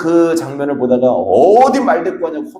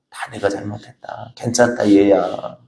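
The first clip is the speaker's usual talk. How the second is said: much softer, gentle elder's forgiving murmur; tender reassurance; 4 semitones lower, 5 dB quieter than usual. Retold or imitated. Elder forgiving the young bride, speaking very softly. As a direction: soothe the daughter-in-law softly.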